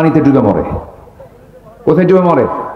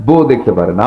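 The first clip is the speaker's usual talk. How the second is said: chuckling while repeating for the crowd; laughing repeat; 4 semitones lower than usual. Shown as a demonstration. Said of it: "কি কথা বলছেন?".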